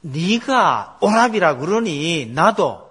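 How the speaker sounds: 아주 느리게, 약간 크게 비꼬듯; 상대를 살짝 놀리듯 천천히; 놀리는 말투. Retold or imitated. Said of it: "이거 일종의 놀리는 거예요". (아비멜렉이 아브라함을 놀리듯 느리게)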